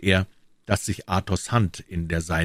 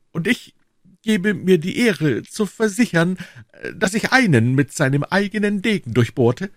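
much higher, polished courtier's voice; higher, gentle, dandyish soldier; refined musketeer; 12 semitones higher, 4 dB louder than usual. Acted. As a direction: Aramis boasting elegantly. Aramis voiced high.

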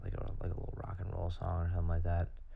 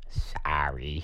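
whispering; 2 semitones lower, 5 dB louder than usual. Real, not acted. Whispered sorry.

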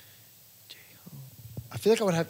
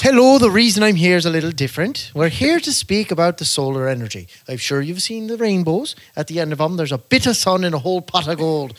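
louder, upbeat door-to-door solar pitch; mock sales pitch; 3 semitones higher, 4 dB louder than usual. Salesman joking about selling solar as a leprechaun, upbeat and louder. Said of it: "That's how we're selling tomorrow".

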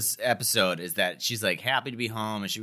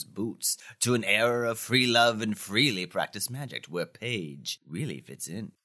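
dramatic synopsis read. Acted. Reads episode synopsis.

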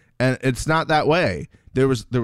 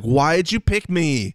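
put-on plain American accent; 4 semitones higher, slower than usual. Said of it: "just a regular American accent doing it".

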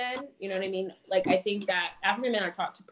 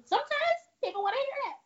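retold plea. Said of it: "I was like".

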